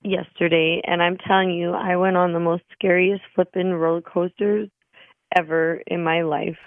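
hoarse, lost voice after screaming; raspy whisper of a lost voice. Real, not acted. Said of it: "I have no voice 'cause I was at Canada's Wonderland".

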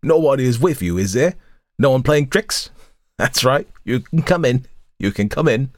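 put-on suspicious old hag, wheezing; wary old woman letting him in. A narrator's reading. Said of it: "she said in a wheezing voice".

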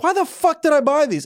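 high-pitched retold exasperation; acted-out buyer's regret; exasperated self-questioning. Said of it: "I look in the mirror, I'm like".

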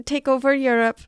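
loud mock German accent. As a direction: bark it in a hammy German accent. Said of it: "Your German accent is spot on".

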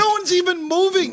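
shouting over fire alarm. Real, not acted.

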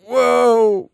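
high, loud house-elf "whoa"; reacting house elf. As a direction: exclaim like an overwhelmed house elf. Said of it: "house elves are like".

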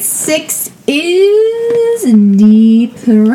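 long drawn-out words, swooping up then down; slow, sustained mock fanfare; hammed-up announcement. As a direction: stretch the last words like a game announcer. Announces the card rule.

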